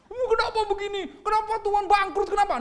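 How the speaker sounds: very high whining lament; hammed-up tearful complaint; mock wailing. Believer lamenting bankruptcy to God, mock wailing. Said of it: "Jangan sampai".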